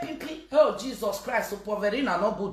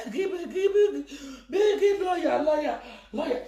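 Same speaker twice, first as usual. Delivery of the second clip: high yelled repeat of begging; teasing shout; mocking shout; 4 semitones higher than usual. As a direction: shout the word to mock them.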